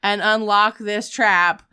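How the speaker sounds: lightly voiced menacing villain; Jigsaw voice. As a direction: read the rules with loud menace. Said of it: "he says something along the lines of".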